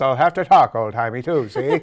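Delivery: 1950s narrator; loud, jaunty old-timey talk, see; old-timey guy voice. Pretend. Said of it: "old-timey guy voice".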